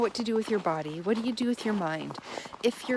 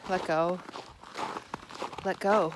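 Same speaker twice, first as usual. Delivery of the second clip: gentle; 3 semitones lower than usual. Shown as a demonstration. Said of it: "you could just gently say".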